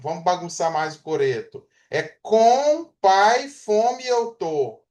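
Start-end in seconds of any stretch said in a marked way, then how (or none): 1.9-4.8 very slow, spaced out, a little higher; scrambled words, slow. Shown as a demonstration. Teacher demonstrating a scrambled sentence, very slow and deliberate. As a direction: space out each misplaced word. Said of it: "Ela não fala assim".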